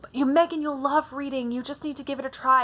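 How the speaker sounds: lightly acted, insistent urging; imitated older sister. Older sister telling little sister to try reading, mock urging. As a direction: coax like a big sister, pitched a little up.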